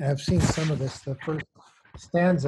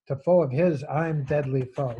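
louder, emphatic hard-line reading; 3 dB louder than usual. Acted. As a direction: recite it as a forceful hard line. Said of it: "you get these really hard lines".

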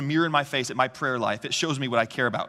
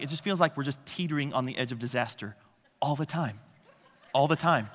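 laughing. Retold or imitated. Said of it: "Becca says it well".

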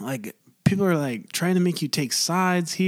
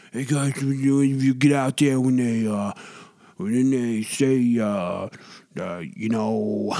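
Trump impression; 3 semitones lower, slower than usual. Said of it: "Donald Trump impersonation".

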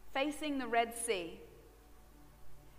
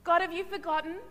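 higher, softer pleading; girl pleading with God, higher and softer; girl's doubts; 5 semitones higher, 4 dB quieter than usual. Retold or imitated. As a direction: plead with God, unsure of yourself. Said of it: "that girl said".

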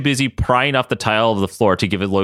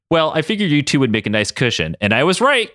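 higher-pitched, smug glee; gleeful; 5 semitones higher than usual. Acted. Katie landed on the two men, gleeful. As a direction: gloat lightly, rising in pitch at the end. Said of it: "Katie said gleefully".

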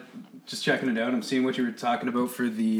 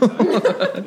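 over-the-top anytime; 8 semitones higher, 4 dB louder, much slower than usual. Acted. Repeats his thanks, hammed up.

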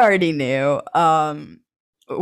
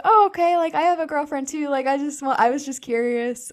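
much higher, bubbly mimic of a classmate; Ashley; 10 semitones higher than usual. Classmate Ashley shares she has a girlfriend too, a bubbly mimic. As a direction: play a friendly classmate, high and light.

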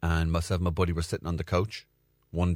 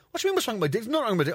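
defensive; 13 semitones higher, much faster than usual. Retold or imitated. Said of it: "And he was like".

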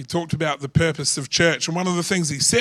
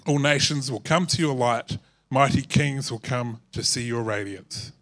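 scripture reading; 3 dB louder than usual. Acted. Pastor reading Isaiah aloud to the standing church, formal reading. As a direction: proclaim the passage to the room.

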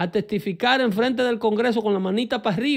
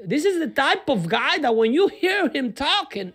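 lightly voiced TV host gushing, higher and slow; hammed-up swooning pundit in English; mock Chris Matthews; 3 semitones higher, slower than usual. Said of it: "el hombre que dice que le sube un calambre". (imitación exagerada de un presentador embelesado)

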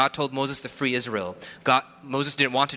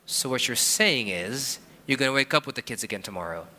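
skeptical husband. Retold or imitated. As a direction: drag it out, checking she means it. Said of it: "And I go".

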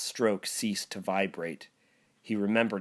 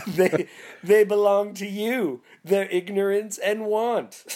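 high, loud breezy offhand tone; cheerful spirit casually revealing monster children; mock-casual spirit; 8 semitones higher, 6 dB louder than usual. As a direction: toss it off like it's no big deal. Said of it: "and then he's just like".

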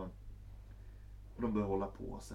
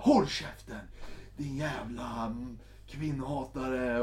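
louder snapping insult, slowing at end; mock angry woman; 4 dB louder, slower than usual. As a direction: bite the words at him. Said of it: "hon bara". (spelat arg kvinna)

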